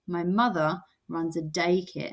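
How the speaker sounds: "mother" and "daycare" carry the beat; stressed beat. Shown as a demonstration. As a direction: read it with weight on "mother" and "daycare". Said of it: "and daycare".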